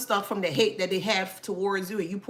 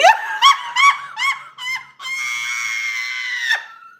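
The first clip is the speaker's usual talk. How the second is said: shrieking laugh; 8 dB louder than usual. Real, not acted. Laughing at Barney comment.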